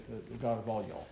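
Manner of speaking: the God of all y'all in a light Southern accent; a hint of Southern American, stretching y'all; a mild Southern twang on all y'all; Southern drawl. Shown as a demonstration. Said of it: "in the South, we say".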